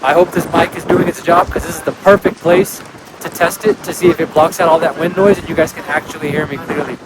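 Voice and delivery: shouting over wind. Real, not acted. It is so windy up here.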